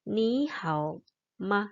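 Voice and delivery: "ni hao ma" slowly, with a light short "ma"; slow model reading of "ni hao ma", final word unstressed; neutral tone on "ma". Shown as a demonstration. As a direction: drop "ma" lightly after a drawn-out "ni hao". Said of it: "membacanya adalah ringan saja".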